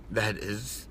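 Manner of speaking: voice breaking. Real, not acted. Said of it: "pardon me".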